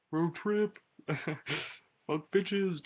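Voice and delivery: high, loud hyped-up shout; loud, playful cheer; excited whoop. Pretend. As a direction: burst out in mock party bravado. Hyped about future road trip.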